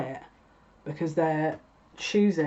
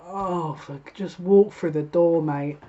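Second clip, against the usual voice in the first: mock moan; 4 dB louder, slower than usual. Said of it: "I can hear everyone moaning".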